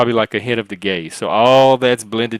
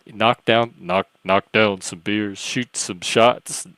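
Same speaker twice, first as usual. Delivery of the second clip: attempted bro voice. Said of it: "I can't do voices".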